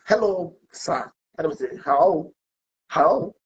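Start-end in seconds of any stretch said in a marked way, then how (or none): 0.1-1.1 British greeting. Retold or imitated. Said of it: "This is how we speak in Britain". 1.8-3.3 British how. Retold or imitated. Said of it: "This is how we speak in Britain".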